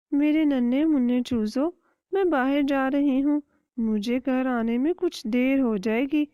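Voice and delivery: caring hen giving her chicks a warning; a hint of a protective mother hen. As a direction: warn the little ones kindly.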